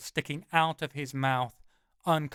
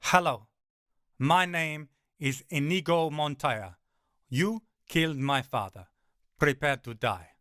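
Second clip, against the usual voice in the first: lightly voiced Inigo Montoya, calm and menacing; low Inigo Montoya. Narrator calmly quotes Inigo Montoya to the giant dog. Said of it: "it's seen the Princess Bride".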